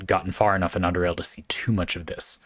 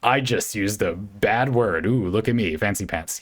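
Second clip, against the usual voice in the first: mock show-off. Shown as a demonstration. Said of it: "overly emphasize".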